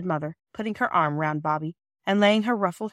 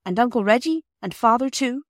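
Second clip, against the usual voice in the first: put-on boy's voice, higher and louder; eager boy; 5 semitones higher, 5 dB louder than usual. A narrator's reading. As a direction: chime in brightly like a young boy. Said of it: "said Peter".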